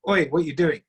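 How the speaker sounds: a mild, rough call of oi, half demanding; rough challenge. Shown as a demonstration. Showing a listener a blunt, confronting greeting. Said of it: "same three different ways".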